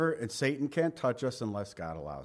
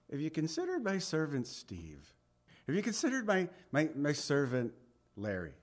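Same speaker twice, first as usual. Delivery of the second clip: playful Lord voice; 6 dB quieter than usual. Acted. Lord voiced, joking about names.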